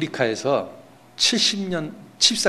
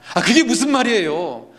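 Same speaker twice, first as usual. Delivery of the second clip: high, louder retort, imitating a baffled missionary; acted protest; 8 semitones higher, 5 dB louder than usual. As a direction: protest back in a raised, questioning voice. Missionary protests back to God.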